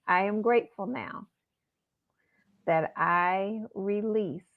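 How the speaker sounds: slow, measured mantra with long pauses. Shown as a demonstration. Teaching listeners a mantra, slow and measured. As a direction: recite each word slowly for listeners. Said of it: "So Imma say it slow".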